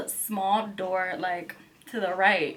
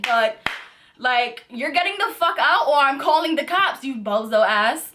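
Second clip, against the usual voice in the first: retold spazzing out; 6 semitones higher than usual. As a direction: lose it and scream at him. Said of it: "but I spazzed".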